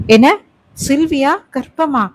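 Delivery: shocked. Acted. Husband learns wife is pregnant.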